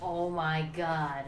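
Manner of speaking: slow, drawn-out exasperation; fed up. Retold or imitated. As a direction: imitate a worn-down driver groaning it. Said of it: "fed up".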